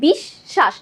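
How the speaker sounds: বিশ্বাস said bish-shash with the s held double; doubled s. Shown as a demonstration. Teacher showing the class the doubled s in বিশ্বাস. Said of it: "দুইবার স এর উচ্চারণ করছি".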